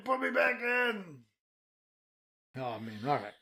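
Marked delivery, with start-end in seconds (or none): 0.1-1.2 slow pleading. Retold or imitated. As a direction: beg again, slowly, defeated. Begging as the time traveller.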